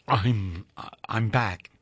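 low, lightly croaked homecoming words; a touch of a croak, choked up. A narrator's reading. Returning lover croaks to Doris, lightly hoarse. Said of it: "he croaked".

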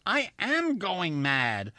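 dawning dread at losing his mind; distressed thought. A narrator's reading.

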